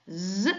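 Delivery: a sustained buzzing "z" on its own; isolated z sound. Shown as a demonstration. Teacher showing how S between vowels sounds, "z" pronounced alone. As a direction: sound out "z" alone, as the voiced consonant. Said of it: "On la prononce".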